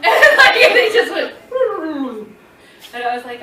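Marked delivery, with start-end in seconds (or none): 0.0-2.9 high, loud laughing words; real laughter breaking in. Real, not acted. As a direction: laugh through it. Laughing at sunglasses falling.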